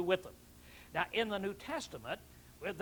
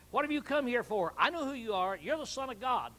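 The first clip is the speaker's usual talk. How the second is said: mild demon cry; 4 semitones higher than usual. Acted. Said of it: "he cries out".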